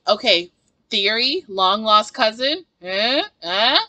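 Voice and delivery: teasing suggestion. Retold or imitated. Pitching a teasing theory.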